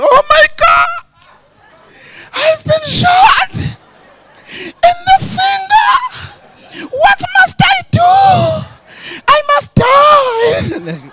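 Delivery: very high, slow melodramatic wail; mock crying over a tiny wound, every word stretched out; hammed-up loud, high lament; soft, sensitive white man. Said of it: "he's white and soft and caring and sensitive".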